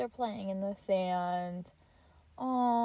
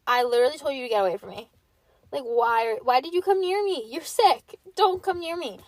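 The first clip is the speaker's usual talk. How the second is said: angry scolding; 2 semitones higher, 5 dB louder than usual. Retold or imitated. Scolding dad for coming close.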